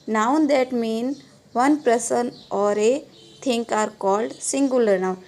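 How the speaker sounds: slow, even dictation to a class. Acted. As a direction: spell it out word by word for students to write. Teacher dictating English definition.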